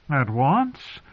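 unhappy. A narrator's reading. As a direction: question it with rising dismay. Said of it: "Edmure sounded so unhappy".

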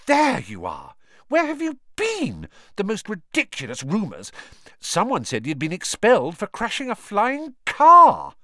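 put-on high, rushed girl voice; breathless schoolgirl. A narrator's reading. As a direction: spill out the news in a rush.

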